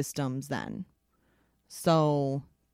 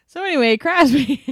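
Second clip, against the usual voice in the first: loud; 10 semitones higher, 10 dB louder than usual. Real, not acted. Loud, high, breaking into laughter.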